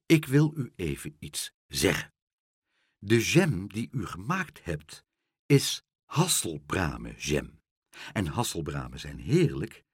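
grave, deliberate announcement; low, measured formality; solemn. A narrator's reading. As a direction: spell out the warning with pauses. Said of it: "zei meneer Pen plechtig".

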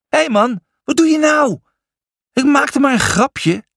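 high-pitched, indignant yell; Brutus. A narrator's reading. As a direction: yell in protest after being knocked down. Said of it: "Brutus sloeg tegen de grond en schreeuwde". (hoog, verontwaardigd schreeuwen)

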